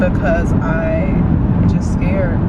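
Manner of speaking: tearful, shaky worry in the car; talking through tears, doubting herself; crying on camera, overwhelmed; real crying. Real, not acted. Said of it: "y'all gonna see me crying".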